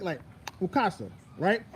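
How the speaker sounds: Mukasa said with a click sound on the k. Shown as a demonstration. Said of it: "I like to say it with that click".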